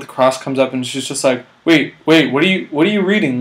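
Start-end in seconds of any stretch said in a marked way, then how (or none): 1.6-3.4 louder, higher, rushed stop; urgent interruption. Retold or imitated. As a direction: catch him before he reads. Casting woman stops him.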